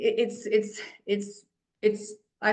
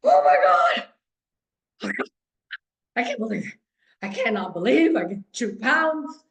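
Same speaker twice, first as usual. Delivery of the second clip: shocked at the scale; 3 semitones higher, 4 dB louder than usual. Retold or imitated. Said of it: "you step on the scale".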